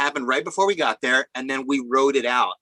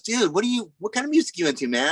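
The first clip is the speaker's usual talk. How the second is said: higher, casual rocker voice; imitating Paul; 6 semitones higher than usual. Paul asking the young assistant about his music, higher and casual. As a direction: pitch it up as a laid-back rock star. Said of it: "Paul goes".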